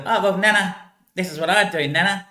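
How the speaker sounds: imitating a grandchild. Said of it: "that's what he talk like".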